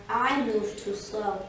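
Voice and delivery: slow, subdued tortoise voice; tortoise character. Acted. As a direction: plod through the words like a tortoise. Tortoise's excuse, slow and low.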